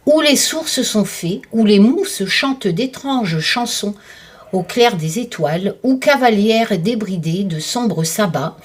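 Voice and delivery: slow, poetic book reading; reading aloud. Acted. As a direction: read it like a mysterious blurb. Reads book blurb aloud.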